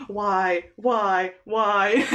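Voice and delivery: hammed-up lament breaking into a laugh; mock despair. Date reacting to talk of being soulmates, in mock despair.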